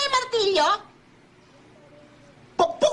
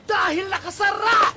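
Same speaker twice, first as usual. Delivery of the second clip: cheerful comic shouting. Acted. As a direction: bellow the answer gleefully. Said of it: "Ba't ka sumisigaw?". (masayang sigaw)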